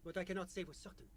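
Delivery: put-on French-accented official; measured, polite French accent. GM voices official NPC.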